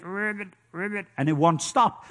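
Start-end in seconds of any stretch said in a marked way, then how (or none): 0.0-1.1 1 faint frog croak. Retold or imitated.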